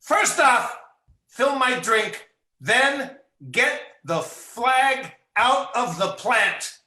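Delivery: high, loud, slow demanding rant; angry man demands a drink. Acted. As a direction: spit out each word in a huff. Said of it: "what is your one syllable rant".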